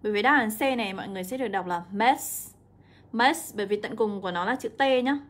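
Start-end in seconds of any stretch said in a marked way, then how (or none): 1.9-3.5 "mess" ending in a clear hissed s; âm đuôi S. Shown as a demonstration. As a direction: end "mess" on s, without iz. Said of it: "sẽ được đọc là âm S". (đọc "mess" chỉ có âm s cuối)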